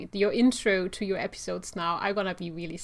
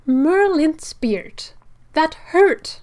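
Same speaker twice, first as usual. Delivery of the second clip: Sprout character voice; 7 semitones higher, 7 dB louder, much slower than usual. Acted. Reading Sprout's opening line.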